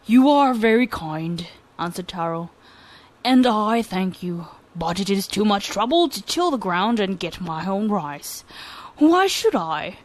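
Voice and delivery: lightly voiced lazy lad, slow and unbothered; lazy boy. Lazy boy boldly telling the governor he does nothing, slow. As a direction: drawl it like you can't be bothered. Taro declines the offer.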